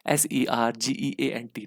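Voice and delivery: slow spelling out. Shown as a demonstration. Teacher spelling word to students.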